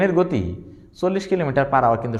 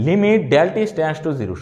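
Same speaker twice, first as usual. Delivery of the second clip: read out slowly; 3 semitones higher, much slower than usual. Shown as a demonstration. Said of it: "reading the limit expression".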